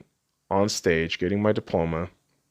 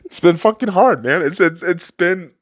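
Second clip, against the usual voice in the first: choked up; 8 semitones higher, 5 dB louder than usual. Real, not acted. Emotional confession about parents.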